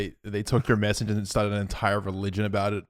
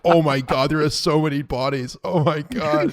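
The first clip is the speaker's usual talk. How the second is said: shocked; 6 semitones higher, 4 dB louder than usual. Pretend. Acted astronaut finding alien bodies.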